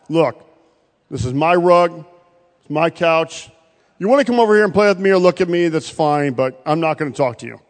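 haughty cat. Pretend. Cat voice telling a visiting preacher to keep off, aloof. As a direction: talk down like a cat guarding its couch. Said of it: "it speaks to me and says".

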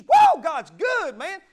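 mocking a believer talking about Jesus at work; mock whoop. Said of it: "you just fired up".

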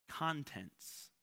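contents with CON stressed, said slowly; stress on first syllable. Shown as a demonstration. Preacher naming what comes out of box, contents stressed on CON. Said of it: "different emphasis".

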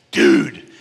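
loud mock-panicked burst; alarmed exclamation. Worship leader busting into pastor's office, mock alarm. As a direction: blurt it out as if bursting in with bad news.

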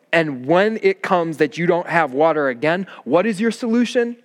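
a hint of a frustrated prophet scolding; lightly voiced Moses rebuking the people, pitch climbing at the end; exasperated Moses. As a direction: Moses pleading with a stubborn Israel, exasperated. Preacher voicing Moses scolding Israel.

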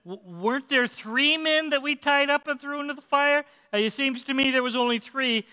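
a baffled king asking his men; king's puzzled question. Acted. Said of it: "he turns to his advisors and he says".

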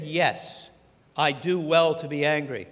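defiant Jonah. Acted. Jonah's defiant reply to God.

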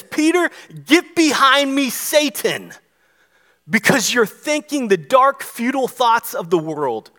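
a preacher's heated rebuke in Jesus' voice; angry rebuke. Retold or imitated. Jesus rebuking Peter for opposing God's plan, angry. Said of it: "it made Jesus angry".

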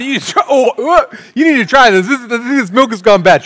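loud, high, urging the next one; passing it around. Retold or imitated. Family member passing sour milk around, loud urging. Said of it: "We just start passing it around".

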